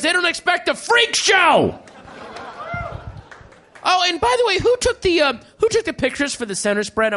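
hammed-up office tirade; mock angry editor. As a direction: scold the staff as the fed-up editor. Editor berating his staff.

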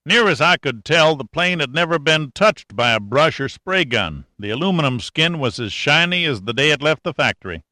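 a hint of a wry country boy; country mechanic. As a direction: talk like a sly old country mechanic. Cashman voice held.

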